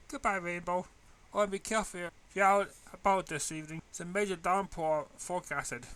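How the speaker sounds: a hint of a kind teacher reassuring her student; voiced teacher Shirley. Teacher warns about rain.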